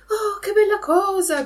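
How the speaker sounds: high, loud cry of delight; joyful cry. Acted. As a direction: shout for joy like a dancing puppet. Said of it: "gridò Pinocchio ballando dall'allegrezza".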